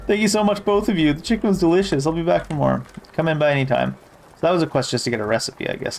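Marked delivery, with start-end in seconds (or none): 0.1-2.8 lightly voiced grateful girl. Voicing grateful girl NPC.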